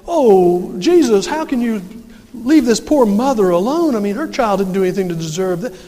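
loud, hammed-up plea for mercy; mock compassionate pleading. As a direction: plead theatrically on a mother's behalf. Voices imagined compassionate disciples pleading.

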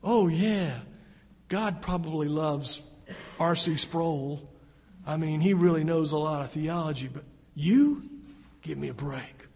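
sneering, scornful voice of the tempter; mock him like a taunting devil; Satan's mocking whisper. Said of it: "I can hear him whisper".

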